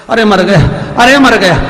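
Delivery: loud high cries of pain; pained yelling. Acted. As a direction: howl at being struck. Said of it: "पति चिल्लाए".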